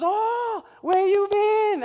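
high, loud, slow surprised greeting; vendor lady's greeting. Retold or imitated. Vendor lady spotting an old customer, high and delighted. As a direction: stretch it out high like a delighted auntie.

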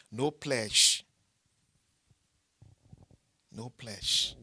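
loud, clipped demand; firm loud insistence. Real, not acted. Preacher to congregation, loud firm insistence. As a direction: lay down the rule.

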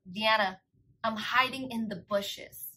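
hushed, slow, secretive imitation; mock phone whisper. Brother hiding in the bushes phones his sister, mock whisper. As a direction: half-whisper it like someone hiding. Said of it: "he's whispering to me on the phone".

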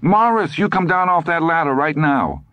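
high-pitched scolding wife; alarmed wifely command, high; crying out. A narrator's reading. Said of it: "Lydia cried".

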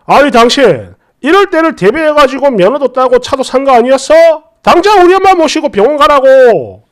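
mother scolding the father, a retold angry rant; retold angry outburst. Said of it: "이렇게 걔 난리를 치더라고".

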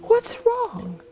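very high-pitched, unconcerned question; smiling captain. A narrator's reading. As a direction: ask blithely through a smile. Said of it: "smiled the captain".

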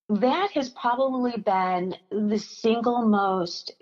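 fighting back tears mid-sentence; choked up. Real, not acted. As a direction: voice tight with held-back tears. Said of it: "I'm choking up a little bit now".

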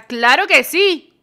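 eager reply. Pretend. Eager answer to crush.

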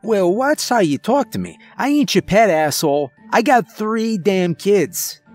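put-on high, riled accented skunk; indignant outburst with a thick accent. A narrator's reading. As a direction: tell them off in a high, heated, accented voice. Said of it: "raising his tail in addition to his voice".

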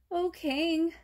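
high little rabbit voice; timid rabbit. Acted. Timid rabbit answers King Lion, high pleading voice. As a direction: plead up high as a small creature.

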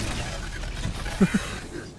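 airy, mostly voiceless laugh; amused laugh. Real, not acted. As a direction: chuckle at the foe. Amused by hiding enemy.

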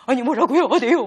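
mild mock indignation; angry, agitated. Shown as a demonstration. Teacher demonstrating the rabbit's angry, agitated retort. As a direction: briefly act worked up and affronted. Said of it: "화가 나서 흥분한 말투죠".

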